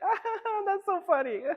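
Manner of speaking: very high, laughing mock-girlish voice; effeminate impression. Imitating his date laughing at his joke, effeminate. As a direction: gush it like a giggly date. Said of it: "I'm being a little effeminate right now".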